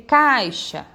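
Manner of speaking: CAIXA with a drawn-out, strong A; stress on the A. Shown as a demonstration. Teacher showing the stronger vowel, stressed A in "caixa". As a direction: lean on the A of "caixa", letting the I fade. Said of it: "o A sai muito mais forte".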